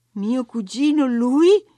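grido sprezzante, molto più forte e acuto; risata sprezzante. Acted. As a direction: deride l'idea con disprezzo, quasi ridendo. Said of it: "gridò Katy con una risata sprezzante". (Katy grida sprezzante verso la domestica)

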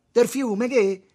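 high shouted question; loud challenge. A narrator's reading. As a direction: fire it back loudly. Tommaso ribatte concitato. (domanda gridata di sfida)

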